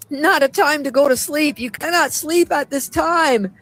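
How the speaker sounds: impassioned plea to wake up; fervent preaching. Acted. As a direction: rouse the flock with rising urgency. Urgent exhortation to wake up.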